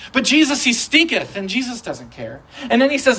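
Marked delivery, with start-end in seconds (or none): 0.1-1.4 mock complaint again. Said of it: "say stinketh and not giggle".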